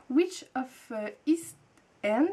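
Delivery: French speaker stumbling through English words, slowly; clumsy English accent. Real, not acted. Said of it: "désolée pour mon accent anglais, euh, à coucher dehors". (titre anglais prononcé avec un fort accent français)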